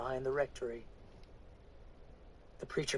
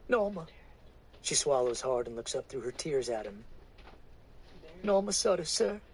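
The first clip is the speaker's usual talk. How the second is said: meek woman. Acted. Woman giving her name to the preacher, meek and tearful. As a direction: answer him meekly.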